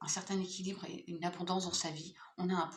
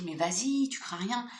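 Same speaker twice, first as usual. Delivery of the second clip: encouraging inner voice; 2 semitones higher, 6 dB louder than usual. Retold or imitated. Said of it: "cette petite voix qui vous dit".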